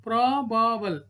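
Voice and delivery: "probable" slowly broken as pro-ba-ble; split into syllables. Shown as a demonstration. Teacher showing three syllables, "probable" said beat by beat. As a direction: say "probable" in three slow beats.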